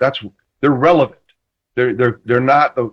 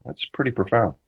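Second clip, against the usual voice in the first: impressed; 8 dB quieter than usual. Retold or imitated. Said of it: "And I was like".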